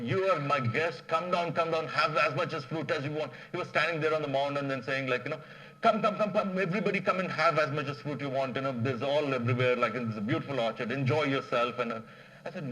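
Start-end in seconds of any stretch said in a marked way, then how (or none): 0.0-3.3 calling out. Retold or imitated. Farmer invites king's men down. 5.8-11.8 eager farmer hollering an invitation; calling out. Retold or imitated. Farmer calls everyone from the mound.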